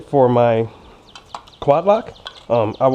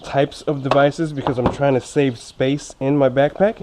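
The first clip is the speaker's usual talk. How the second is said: talking around fresh braces; slightly lisping braces speech. Real, not acted. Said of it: "excuse me if I sound a little funny".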